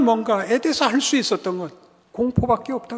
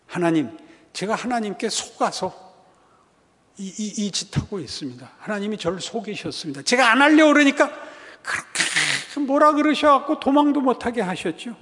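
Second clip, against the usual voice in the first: complaining prayer. Acted. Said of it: "이렇게 말을 하고 있습니다".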